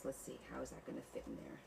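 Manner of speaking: soft whisper while fiddling; whispered to herself. Real, not acted. Crafter whispering to herself over the tabs. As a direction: whisper it, thinking aloud.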